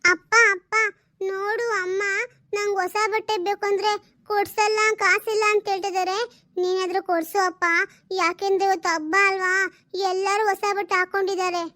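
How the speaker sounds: a lightly voiced small girl, sulking; little girl. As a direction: play the daughter whining for new clothes. (ಹಠ ಮಾಡುವ ಪುಟ್ಟ ಹುಡುಗಿಯ ಧ್ವನಿ)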